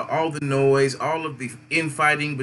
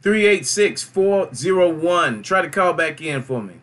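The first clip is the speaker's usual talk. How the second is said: calling out on air; 4 semitones higher, 5 dB louder, slower than usual. Real, not acted. Host calling caller numbers again.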